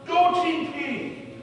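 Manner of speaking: high, slow, drawn-out cheer from the stands; imitated fan holler. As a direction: call it out high and stretched like a fan in the bleachers. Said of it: "he kept hollering out".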